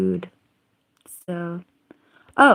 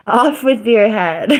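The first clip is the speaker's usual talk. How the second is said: mock nice way; 3 semitones higher, 6 dB louder than usual. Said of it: "how do I say it in a nice way".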